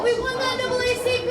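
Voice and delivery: loud, high celebratory yell; victory cheer. Retold or imitated. Drunk fan turns to a friend after the championship, cheering. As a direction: whoop it out like a fan whose team just won.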